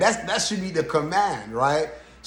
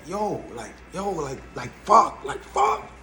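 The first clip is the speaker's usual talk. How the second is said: distressed partner; 3 dB quieter, slower than usual. Retold or imitated. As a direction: mimic a rattled partner losing it. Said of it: "his partner is in distress".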